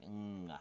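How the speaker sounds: "Ng" as one velar nasal hum; demonstrating the NG sound. Shown as a demonstration. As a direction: sound out "Ng" by itself. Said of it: "that's gonna be N G".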